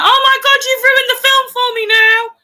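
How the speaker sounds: high, loud, hammed-up outrage; mock outraged wail. Girl reacts to the lad spoiling the film, mock wailing outrage.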